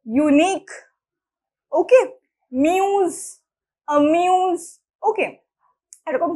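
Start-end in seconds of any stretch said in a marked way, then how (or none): 0.0-0.6 ইউনিক with a long "you" opening. Shown as a demonstration. Teacher giving a U example, "you" sound in ইউনিক. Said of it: "এখানে কিন্তু ইউই বলছি". 2.5-4.6 মিউজ and অ্যামিউজ with a held "you" vowel; long U sound. Shown as a demonstration. Teacher listing examples for students, long U sound. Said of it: "এখানে long sound ভাবেলে".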